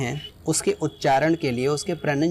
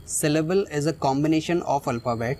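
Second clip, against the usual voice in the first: slow reading; much slower than usual. Shown as a demonstration. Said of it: "इस definition को read करते हैं".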